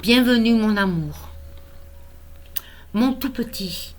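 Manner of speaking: measured, tender poem recital with pauses between lines; poem reading. Acted. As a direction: read your own poem to a newborn, phrase by phrase. Recites own poem to grandson.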